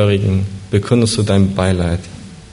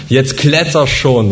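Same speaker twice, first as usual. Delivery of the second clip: calling out; 4 semitones higher than usual. Acted. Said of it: "ruft er dir zu".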